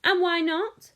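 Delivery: high, loud challenge; mild shriek. A narrator's reading. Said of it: "shrieked Missus Gloop".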